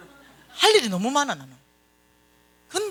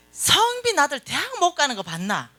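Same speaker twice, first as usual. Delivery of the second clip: confident retort; 6 semitones higher than usual. Retold or imitated. Friend's confident retort, re-enacted.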